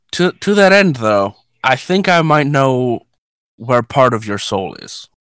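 lightly voiced old priest, slow; a hint of a frail elderly man. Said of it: "he's a very old man".

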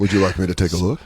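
quick, low, soft doctor's offer; mock-clinical question in a low voice; medical tone. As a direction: ask it quietly, like a doctor. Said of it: "medical tone when she said that".

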